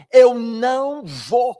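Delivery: slow, loud, drawn-out refusal from the annoyed son; irritated refusal. Retold or imitated. Teenage son refusing his father's invitation, irritated and loud. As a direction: stretch each word, fed up. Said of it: "é hora que ele começar a ficar irritado".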